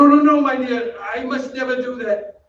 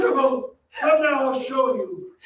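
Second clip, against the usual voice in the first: crazed laughing coax; 3 semitones higher than usual. Acted. Phantom raving in the cellars.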